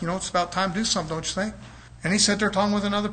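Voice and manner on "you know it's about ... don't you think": quick, much softer aside; unspoken hint. Retold or imitated. Looking at the preacher with unruly children, quiet pointed hint. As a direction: slip it in softly, like a pointed thought. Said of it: "I'm looking at this preacher like".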